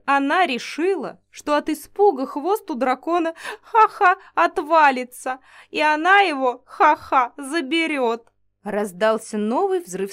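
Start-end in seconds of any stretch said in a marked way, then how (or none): 0.0-8.3 louder words broken by laughter; laughing while talking. Acted. Alexander mocks Isabel's plan to the mage, laughing through words. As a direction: gasp the story out through laughs. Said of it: "всхлипнул от смеха Александр".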